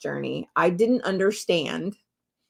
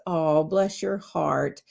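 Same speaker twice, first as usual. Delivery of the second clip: slow sugary bless; 2 semitones lower, much slower than usual. Shown as a demonstration. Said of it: "the tone in which it's said".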